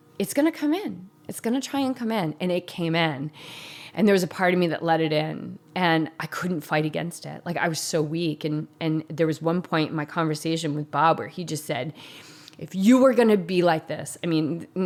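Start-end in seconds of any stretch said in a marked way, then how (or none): 12.6-14.2 much louder yell. Retelling how Bob yelled at him during a conversation: imitating Bob yelling. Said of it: "this is about, like, twenty decibels higher".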